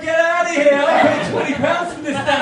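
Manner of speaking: shouting high and loud at the dancer; indignant shout. Retold or imitated. Man who paid for a private dance yells at the door, outraged. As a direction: yell in mock outrage, voice up high. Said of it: "I was like this".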